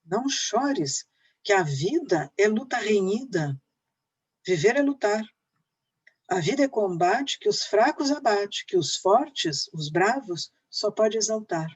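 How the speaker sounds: deliberate, stressed five-beat verse; teacher declaiming an epic poem; emphatic poem recitation. Acted. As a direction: declaim each verse with falling ends.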